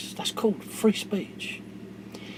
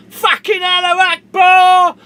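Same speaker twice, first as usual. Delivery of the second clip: much higher, much louder yell; retold shout; 11 semitones higher, 14 dB louder than usual. Vlogger acts out the attacker's cry, full yell. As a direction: belt it like the gunman charging out.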